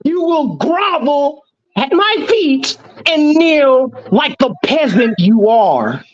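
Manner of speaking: slow, menacing evil emperor decree; drawn-out commands to a peasant; cold rasping evil emperor. Pretend. Mock emperor decree to rival.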